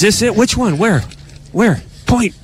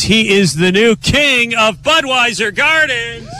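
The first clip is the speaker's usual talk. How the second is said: excited announcement; 5 semitones higher, slower than usual. Real, not acted. Crowning the winner.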